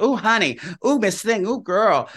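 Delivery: a hint of a camp drag-queen gush; camp sassy gushing. Celebrity retold gushing at the host, in a lightly camp sassy voice. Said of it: "really playing up the gay thing".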